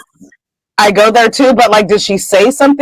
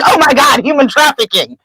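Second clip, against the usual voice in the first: higher, hammed-up alarm; mock panic; 5 semitones higher than usual. Teasing friend about jumping to trafficking, in mock panic. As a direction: put on a teasing overreaction.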